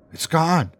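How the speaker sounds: high, breathless voice of a frightened woman; breathless announcement. A narrator's reading. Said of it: "she announced breathlessly".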